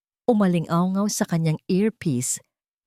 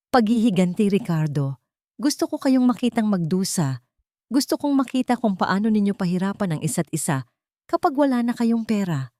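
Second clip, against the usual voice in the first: vengeful; 5 semitones higher than usual. Acted. Villain revealing revenge.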